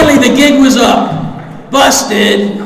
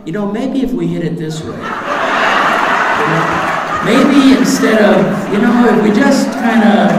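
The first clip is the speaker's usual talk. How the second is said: a hint of a dazed addict pondering; scheming addict. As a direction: think it over slyly. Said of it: "looks at the wall and goes".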